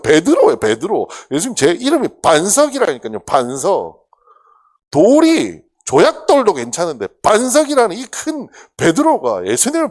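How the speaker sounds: loud, high, cocky protest; full of bravado. Retold or imitated. Peter boasting to Jesus, loud high bravado. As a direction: puff up and protest loudly. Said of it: "호기에 차서 예수님께 말씀을".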